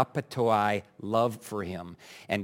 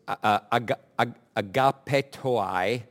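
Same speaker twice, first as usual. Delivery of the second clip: unsure pronunciation. Real, not acted. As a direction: sound out agapetoi tentatively, restarting on the first syllables. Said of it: "Never know about my pronunciation".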